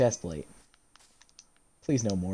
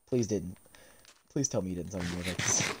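quiet dread; 7 semitones lower, 8 dB quieter than usual. Real, not acted. Dreading the summon.

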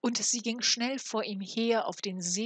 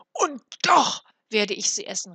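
furious vow; 3 semitones higher, 9 dB louder than usual. A narrator's reading. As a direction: fling the vow out in a rage. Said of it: "rief er mit funkelnden Augen".

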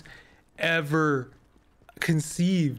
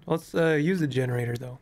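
losing voice. Real, not acted. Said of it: "I'm losing my voice".

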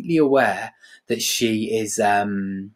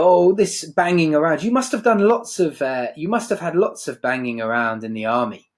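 higher, airy mock patronising; 4 semitones higher than usual. Blanche mocking Stanley's army past, lightly patronising. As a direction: talk down to him like a child. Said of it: "so patronising".

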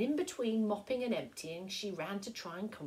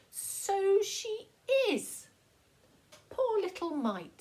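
much higher and louder, fussing; sympathetic old lady; 13 semitones higher, 8 dB louder, slower than usual. Acted. Missus McNally pities wet Annie Rose, high and fussing. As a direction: coo over the baby.

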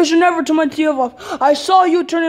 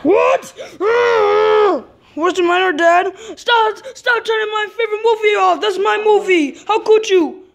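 high, whiny pleading protest; upset protest; 4 semitones higher than usual. Acted. Kid protests to dad about his movie, high and upset. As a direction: beg dad to stop, near tears.

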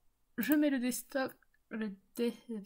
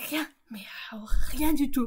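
whisper; 6 dB louder than usual. Real, not acted. Laughing disbelief at German song.

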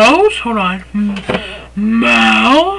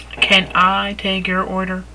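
upselling cashier; 5 semitones lower, 6 dB quieter than usual. Shown as a demonstration. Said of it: "Repeat after me".

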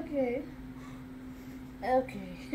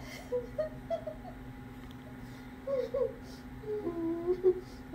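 hysterical laugh; 3 semitones higher, 11 dB quieter than usual. Real, not acted. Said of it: "Scarlo laughing spell".

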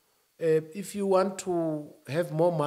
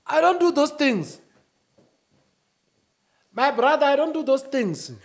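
higher, loud insistence; defiant; 8 semitones higher, 6 dB louder than usual. Real, not acted. Refusing counseling to his brother, loudly defiant.

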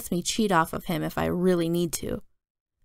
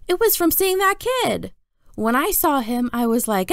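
lightly voiced young boy, a bit higher; little brother Jamie; 6 semitones higher than usual. Little brother tells Mom about his nightmare, light child voice. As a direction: play the kid brother eager to be backed up.

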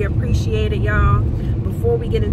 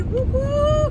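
excited woo. Real, not acted. Celebrating son's birthday.

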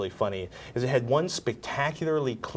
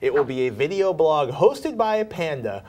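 reading the quote; 4 semitones higher, 5 dB louder than usual. Retold or imitated. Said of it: "He says".

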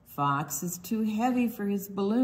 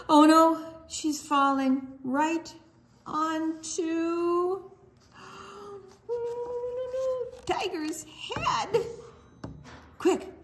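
mock alarm; 9 semitones higher, slower than usual. Mouse falling onto tiger.

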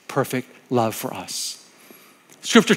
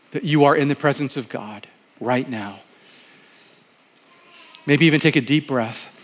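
prayer leading; 3 semitones lower than usual. Acted. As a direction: settle the listeners gently into prayer. Pastor leads closing prayer.

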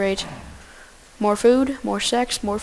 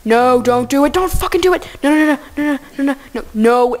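high, loud panicked shouting; panicked yelling; 4 semitones higher, 7 dB louder than usual. Real, not acted. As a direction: yell to stop the cow from running. Panicking as cow escapes.

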